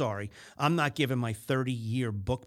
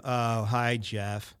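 flat, let-down "oh, hi" from a customer; unenthused greeting; 3 semitones lower, 3 dB louder, much slower than usual. Retold or imitated. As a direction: lightly mimic a customer who dreads salespeople. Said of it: "it's a bad signal".

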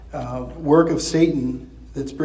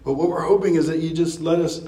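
lightly voiced frightened pleading, pitch raised; demons begging for mercy. Preacher voicing demons begging Jesus, mildly pleading. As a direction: plead for mercy, a touch of fear in it. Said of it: "reduced to a posture of begging".

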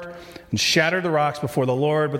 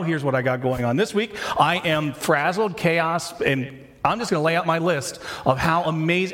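exasperated spouse; 3 semitones higher than usual. Acted. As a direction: reel off grievances like an overworked partner. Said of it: "in exhausted marriages".

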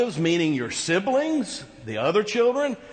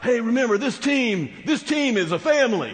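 coach in the huddle; 4 semitones higher than usual. Retold or imitated. A coach in the huddle rallying his team, lightly voiced. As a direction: pump up the players like a coach in a huddle. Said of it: "you got the coach in the huddle".

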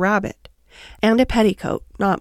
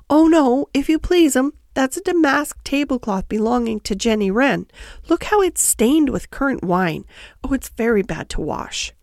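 lightly voiced obliging hedgehog washerwoman; polite, correcting Tiggywinkle; 4 semitones higher than usual. Tiggywinkle corrects Lucy about the laundry, obliging washerwoman. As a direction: start high and emphatic, then settle into explaining.

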